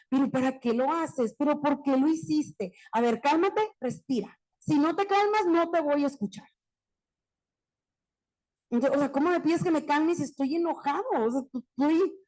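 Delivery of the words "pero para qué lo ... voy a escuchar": mildly imitated impatient teacher asking why; a hint of a fed-up adult telling a child to calm down; impatient adult scolding. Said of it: "muchas veces preguntamos". (maestro un poco impaciente, imitado)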